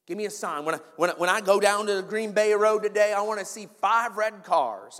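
put-on slipping into a light Southern accent. Preacher imitating someone asking God for a sign, light Southern accent. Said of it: "why I'm going Southern accent here".

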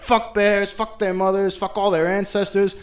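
half-yelled insults, playing it up; angry rant. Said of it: "screaming her head off".

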